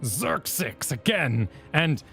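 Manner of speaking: put-on reading quest text in a Scottish accent. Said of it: "it doesn't work in a Scottish accent".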